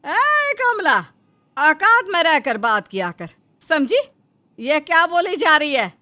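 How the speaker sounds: mother-in-law yelling at the maid; angry scolding. Acted. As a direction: put the maid in her place, loudly.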